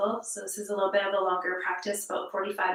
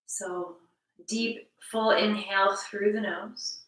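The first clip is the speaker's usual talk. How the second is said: slow, measured meditation-teacher delivery; guided breathing. Real, not acted. Yoga teacher guiding a class through mirror breaths, slow guided breathing. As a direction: lead the breath slowly, with long pauses between phrases.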